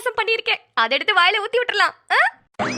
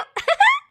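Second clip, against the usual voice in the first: laugh. Acted. Scoffing at the accusation.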